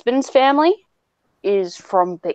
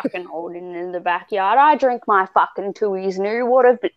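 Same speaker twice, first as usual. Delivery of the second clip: hammed-up Australian bogan rambling; Aussie bogan. Bogan listing backyard pleasures, broad Aussie accent. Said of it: "she goes off in her Aussie, like, rambling".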